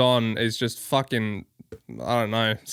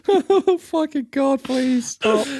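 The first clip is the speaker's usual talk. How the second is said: exasperated begging; 11 semitones higher, much slower than usual. Acted. Begging him to stop anime talk.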